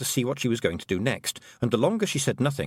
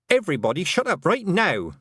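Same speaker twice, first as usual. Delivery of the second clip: commanding; 9 semitones higher, 4 dB louder than usual. Acted. Tiffany silencing the clan.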